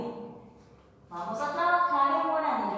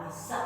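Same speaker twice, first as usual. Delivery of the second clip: "mesa" stressed on the final A; accent on A; 8 dB quieter than usual. Shown as a demonstration. Teacher showing Guaraní accent on the last A, stressed final vowel. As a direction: land the weight on the A of "mesa". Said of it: "le doy un acento sobre la A".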